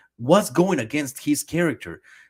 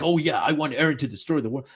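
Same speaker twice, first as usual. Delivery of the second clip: fast, offhand mock cool voice; mocking edgelord fan; faster than usual. Streamer mocking fans who want cool Eren. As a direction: toss it off like a smug fan. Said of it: "he's like".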